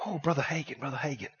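soft, hushed retold whisper. Church member whispering to the preacher, hushed. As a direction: lean in and whisper the warning. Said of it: "he's whispering".

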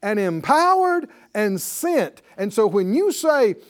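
slow, loud, emphatic preaching; forceful preaching. Acted. Preacher to congregation, preaching loud and slow. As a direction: drive each word home from the pulpit.

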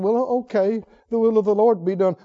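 subdued mock concession in an ordinary pitch; reluctant giving in. Preacher as Paul's friends finally yielding, reluctant acceptance. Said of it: "So they said".

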